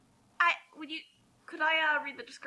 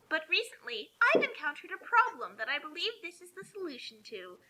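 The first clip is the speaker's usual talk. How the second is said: whisper; 3 semitones higher than usual. Acted.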